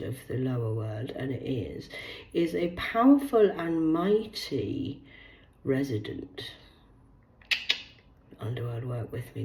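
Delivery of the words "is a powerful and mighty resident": slow, weighty, dramatic reading; grand and slow. Acted. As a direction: make each word sound mighty. Slow grand reading of demon text.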